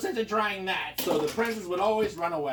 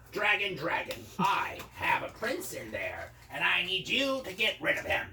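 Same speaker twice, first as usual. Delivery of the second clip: calling out; 3 semitones higher than usual. Acted. Wizard summons dragon.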